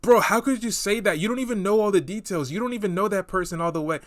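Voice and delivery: lightly whiny "you don't even know" voice; imitating people. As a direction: mimic the typical complainer. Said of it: "one thing that people will always say is".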